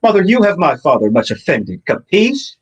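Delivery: put-on Russian accent. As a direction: growl it out like a Russian gangster. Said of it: "we've got our Russian accents".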